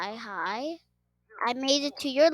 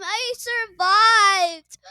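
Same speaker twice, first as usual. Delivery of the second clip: slow stretched high cheer; whooping with relief; joyful shout; 11 semitones higher, 4 dB louder, much slower than usual. Real, not acted. Celebrating survival.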